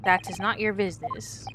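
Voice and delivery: proud Russian sailor introducing himself. Acted.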